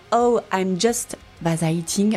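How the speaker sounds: English title in a thick French accent. Real, not acted. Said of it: "j'ai un accent anglais pourri".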